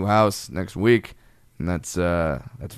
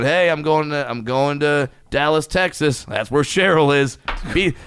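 imagined dad; 5 semitones higher than usual. Acted. Voices himself as dad to kids.

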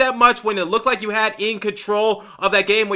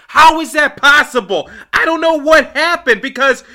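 louder, higher exasperation; rant; 5 semitones higher, 4 dB louder than usual. Real, not acted. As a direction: demand an answer from the team. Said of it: "It's time for me to rant".

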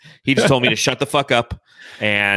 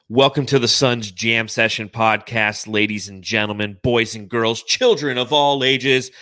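ringmaster. Acted. Podcast intro, circus-style greeting.

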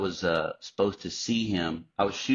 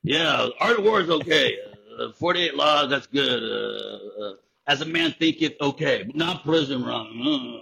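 loud, higher mock approval; louder, hammed-up verdict on each book; mock smug censor; 4 semitones higher, 4 dB louder than usual. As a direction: lord it over the book list. Mock officials ranking books.

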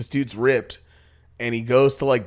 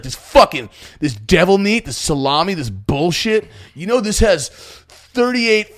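ranting fitness guy; 4 semitones higher, 5 dB louder than usual. Retold or imitated. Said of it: "He's like".

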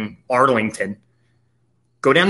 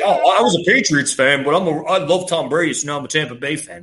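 breezy voice, lightly put-on; mock bandwagon fan. Host mimicking a Brady bandwagoner, light mock voice. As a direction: parody the fair-weather fan.

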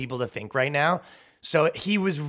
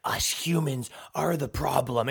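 slow, ominous mock villain line; hint of a movie bad guy, slow; slower than usual. Mocking Hollywood stars as a self-serious villain, slow mock menace. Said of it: "all these guys have Thanos energy".

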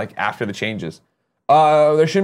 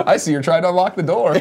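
mock Clippy voice; 5 semitones higher than usual. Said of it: "Clippy can follow you around".

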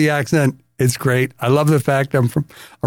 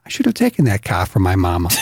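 Boston accent; 5 semitones lower, faster than usual. Shown as a demonstration. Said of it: "gonna talk like they talked".

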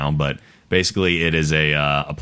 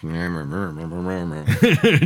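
wordless grumbly mumbling; grumbling under breath. Pretend. Guest still sore about the movie remake, wordless grumbling. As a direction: mumble crossly with no real words. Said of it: "grumbling under your breath".

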